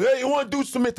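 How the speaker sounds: high, brisk trainer call. Retold or imitated. Trainer inviting comedian to mitts, high brisk call. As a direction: hail the rookie like a gym trainer. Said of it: "He goes".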